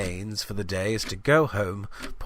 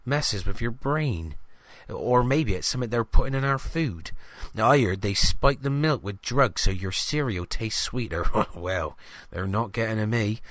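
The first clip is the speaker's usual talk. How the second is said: conspiratorial greengrocer. Acted. Greengrocer sharing conspiracy theories with the reporter, chatty. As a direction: lean in with wild village theories.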